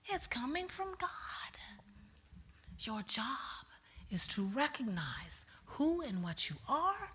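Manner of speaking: slow hushed pulpit delivery; hushed sermon. Acted.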